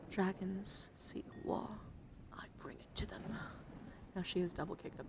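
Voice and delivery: hushed, close whisper for a card showcase; ASMR whisper. Acted. ASMR creator whispering through her Magic cards, gentle whisper. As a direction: whisper as if lulling someone to sleep.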